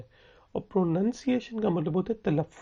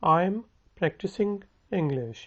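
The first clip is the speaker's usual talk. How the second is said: very slow, each word spelled out for learners; slow it right down so students can copy; slow model sentence; much slower than usual. Shown as a demonstration. Teacher slowly modelling a question for students to repeat. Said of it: "मेरे साथ बोलें".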